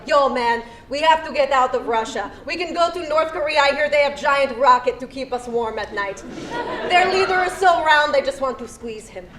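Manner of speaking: light mock Russian accent; lightly put-on Russian accent for Olaf; a little Dracula. Comedian voicing Olaf planning to flee Russia, mock Russian accent. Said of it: "That was a little Dracula".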